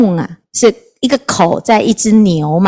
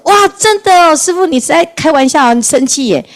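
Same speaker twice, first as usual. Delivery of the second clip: surprised relief; 7 semitones higher than usual. Retold or imitated. Old woman relieved at monk.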